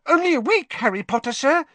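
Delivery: high, squeaky and happy; happy house elf. A narrator's reading. Dobby telling Harry how long he's been here, high and happy. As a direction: chirp it out, delighted. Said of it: "said Dobby happily".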